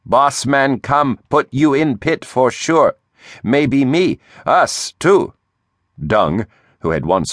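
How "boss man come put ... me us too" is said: higher, rising panic in broken English; frightened pleading. Acted. Beetle moans in fear.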